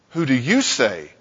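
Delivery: slow question, leaning on "you"; stress on YOU. Shown as a demonstration. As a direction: put the weight on "you". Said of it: "Notice the emphasis on the individual".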